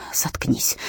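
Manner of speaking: hushed, breathless shut up; barely voiced, afraid to be heard; frightened whisper. A narrator's reading. Whispered plea to father.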